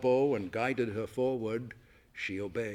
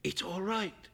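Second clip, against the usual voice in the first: soothing murmur; 6 semitones higher, 5 dB quieter than usual. A narrator's reading. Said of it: "he murmured ... soothing and deep".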